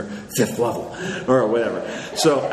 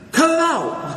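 much higher squeaky complaint. Retold or imitated. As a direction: whine at the pest who steals kills. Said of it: "And he's like".

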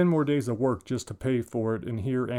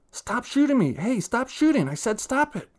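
whiny yelling; 12 semitones higher, 3 dB louder than usual. Acted. Boy yelling at game.

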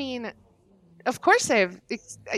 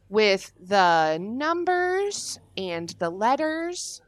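very slow, drawn-out words; stalling bluff; much slower than usual. Acted. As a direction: stretch each noun while bluffing. Bluffing enthusiasm for Office in interview.

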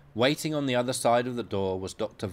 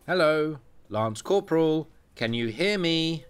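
raised, louder doctor's voice calling the patient; a voiced consultant, higher and louder; 6 semitones higher, 4 dB louder than usual. Consultant calls the patient back.

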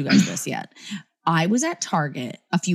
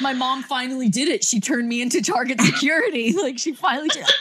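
higher, lightly voiced scared kid; 6 semitones higher than usual. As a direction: play a startled little boy. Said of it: "He was like".

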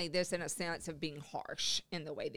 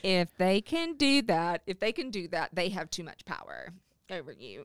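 louder on request; 5 dB louder than usual. Real, not acted. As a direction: repeat it for the people in the back. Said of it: "say that again louder for the people in the back".

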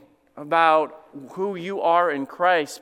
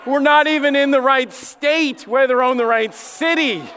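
laughing; 4 semitones higher than usual. Retold or imitated. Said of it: "and she said".

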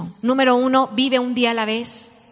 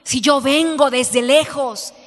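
indignant complaint; 2 semitones higher than usual. Retold or imitated. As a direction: play the offended customer, half-hearted. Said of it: "Y empieza a decir".

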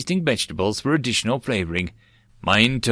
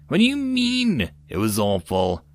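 human interrupting. Acted. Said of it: "The human interrupted me".

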